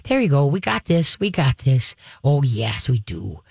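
gentle reassuring praise to the dog; calm praise. Shown as a demonstration. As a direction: soothe the dog while walking. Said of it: "if he's acting well".

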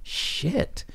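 hushed, voiceless mock dismay; stunned whisper. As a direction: whisper it as a dawning realization. Executive stunned at discovery, retold.

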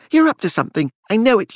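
frantic accusation; wild. A narrator's reading. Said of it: "his voice still wild".

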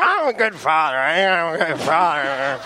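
lightly voiced defensive father; Dean's dad. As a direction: play an imitated dad protesting. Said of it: "your imitation of, of Dean's dad".

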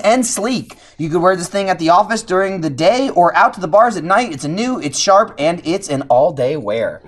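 lively scripted pitch with punched selling words; sponsor ad read. Real, not acted. Host sells affordable, sleek watches to listeners, ad-read delivery. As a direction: read the copy out like a podcast pitch, drawing out the closing words.

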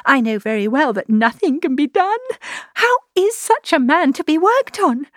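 high, anguished hopelessness; distraught, pitched high and swelling at the end; despairing. A narrator's reading. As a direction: lament that all is lost. Despairing outburst over the elopement.

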